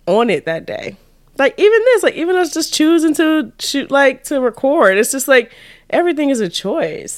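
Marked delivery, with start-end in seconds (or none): 1.4-7.2 raised, excited emphasis; lively higher voice about choosing; animated. Real, not acted. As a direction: drive the point home with energy. Animated point about choice.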